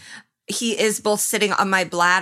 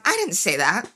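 housewife denial; 2 semitones higher than usual. Retold or imitated. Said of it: "felt like a housewife in that moment".

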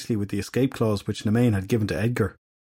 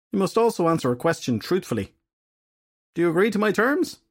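higher, sly and toying; capricious fairy goddess; 6 semitones higher than usual. Acted. Nemain teasing Edgar with her conditions, sly and toying. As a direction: lay out your terms with a sly smile.

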